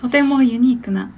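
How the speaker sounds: a touch of an elegant lady voice; lightly voiced rich young lady; haughty rich girl Japanese. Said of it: "今のお嬢様言葉で".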